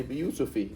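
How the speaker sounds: "Yusufi" ending in an ee vowel; kasra ending. Shown as a demonstration. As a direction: end "Yusufi" on -fee, with no n. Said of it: "You can't have a kasra either".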